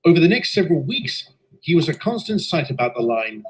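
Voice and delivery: steady storytelling voice, looking back; story narration. A narrator's reading. Engine narrator telling listeners of the inspection, calm narration. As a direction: recount the tale evenly like a memoir.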